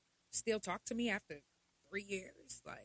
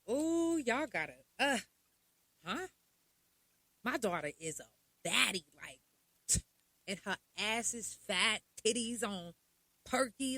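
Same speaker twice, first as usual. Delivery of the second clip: mocking bragging mom. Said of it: "I hear".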